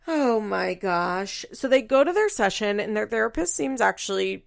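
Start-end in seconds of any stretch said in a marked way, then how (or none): 0.1-1.4 long drawn-out, weary exclamation; slow, real exasperation; exasperated. Real, not acted. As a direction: stretch it slowly in disbelief. Exasperated after mocking Javi.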